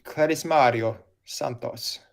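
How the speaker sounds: put-on slow, drawn-out Italian accent. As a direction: roll the name out in an Italian accent. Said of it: "Said with the most Italian accent".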